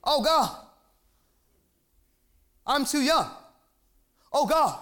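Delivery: lightly imitated excuse-maker; mock excuse-making. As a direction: act out a string of feeble excuses. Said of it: "We have excuses that we give to God".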